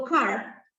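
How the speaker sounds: "car" said slowly as an English word with a clear K sound; English word demo. Shown as a demonstration. Teacher modelling an English word's K sound, slow. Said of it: "Si digo".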